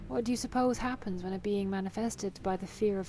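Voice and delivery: lightly voiced, measured game villain; composed villain. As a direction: read it as a self-assured antagonist, lightly acted. Reads villain's dialogue.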